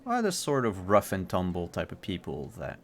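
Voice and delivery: measured narration, phrases left hanging; storyteller unveiling the scene piece by piece; game master's scene setting. A narrator's reading. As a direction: describe the scene with deliberate pauses.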